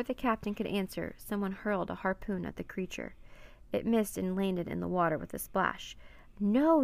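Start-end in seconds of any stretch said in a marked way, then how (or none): 6.4-6.8 loud, high, drawn-out cry; desperate yell. A narrator's reading. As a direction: yell it out in protest. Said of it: "yelled Annie".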